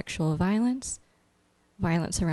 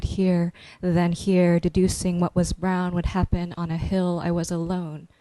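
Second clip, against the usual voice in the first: slow, measured poetry reading; poem reading. Acted. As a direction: read each image slowly, letting it land. Reads her poem aloud.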